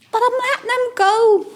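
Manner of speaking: put-on a little girl defending her bumblebees; child's laughing protest. Young Jacqueline telling her grandad she lets the bees go, high and laughing.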